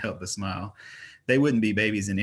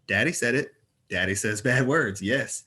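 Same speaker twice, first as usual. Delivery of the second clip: put-on toddler girl voice; 2 semitones higher, 3 dB louder than usual. A narrator's reading.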